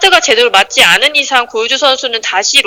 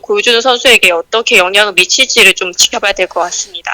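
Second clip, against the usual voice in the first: echoing stairwell. Real, not acted. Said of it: "사무실 복도 계단인 것 같네요".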